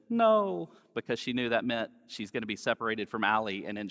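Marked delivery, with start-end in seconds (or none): 0.1-0.7 put-on a sharp, high, louder toddler "No"; imitating a little girl refusing; toddler's no. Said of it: "she said".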